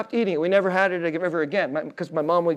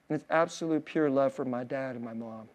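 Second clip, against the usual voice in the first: heartfelt; 7 semitones lower, 9 dB quieter than usual. Real, not acted. Tender tribute to parents.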